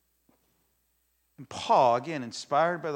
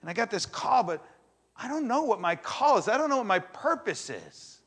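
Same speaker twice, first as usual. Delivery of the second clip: higher, louder, exasperated venting; frustrated listener; 4 semitones higher, 6 dB louder than usual. Retold or imitated. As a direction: voice a churchgoer's frustration, pushed higher. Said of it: "Maybe an anger a little bit".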